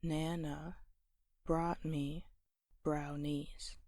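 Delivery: NA in "Nana", BROUGHT and BROW in "brownies" leaned on, with pauses; stressed syllables marked. Shown as a demonstration. Teacher identifying which syllables are stressed, stresses marked with pauses. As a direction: split into pairs, leaning on the first syllable of each. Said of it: "we identify which are stressed".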